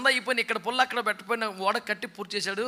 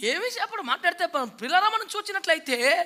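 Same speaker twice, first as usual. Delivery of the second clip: much higher, whiny mock preacher catchphrase; mocking a pastor; 6 semitones higher than usual. Preacher mocking another pastor's empty pulpit phrase. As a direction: parody a repetitive preacher. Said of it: "చిరాకు వచ్చేసింది".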